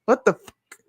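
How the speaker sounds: shocked, high-pitched disbelief; what on earth, stunned; disbelieving. Real, not acted. Reacting to news in disbelief.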